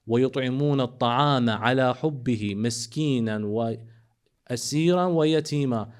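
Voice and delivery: fast, flowing melodic recitation of the verse; recited Arabic verse; Quran recitation. Acted. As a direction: chant it rapidly in tajwid style.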